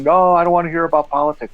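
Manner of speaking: mild mock scream; half-shouted imitation of complaining readers; retold scream. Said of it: "the readers would scream".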